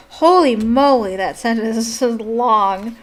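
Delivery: loud astonished holy moly, then slow; amazed exclamation. Real, not acted. Reader marveling at a very long sentence, amazed. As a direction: marvel at the length.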